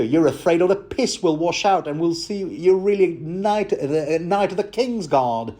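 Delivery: fast, self-mocking Cockney innkeeper, breaking into laughs; Cockney accent. Innkeeper teasing a knight, shaky Cockney accent. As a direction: push through the Cockney accent while laughing. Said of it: "I'm really crap at this".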